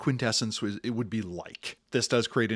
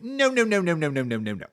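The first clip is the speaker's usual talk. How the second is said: firstborn protesting; 6 semitones higher than usual. Retold or imitated.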